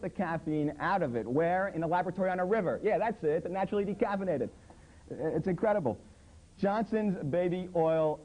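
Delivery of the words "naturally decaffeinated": mocking. Mocking the label phrase.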